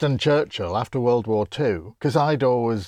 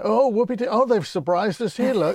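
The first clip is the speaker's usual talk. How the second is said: higher mock-cheery soldiers' voice; sarcastic soldiers; 4 semitones higher than usual. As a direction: ham up delighted soldiers, sarcastically. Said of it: "all the soldiers say".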